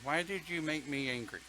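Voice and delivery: questioning the anger. Shown as a demonstration. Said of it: "put it in the palm ... look at it".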